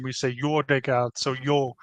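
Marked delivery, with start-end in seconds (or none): 0.3-1.2 jó reggelt said as yo reggelt, Hungarian jó like yo; Hungarian pronunciation. Shown as a demonstration. Presenter demos Hungarian greeting to class, Hungarian pronunciation. 1.4-1.7 yo said like Hungarian jó; Hungarian sounding yo. Shown as a demonstration. Presenter shows Transylvanian pronoun sound, Hungarian sounding. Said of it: "Hungarian sounding yo".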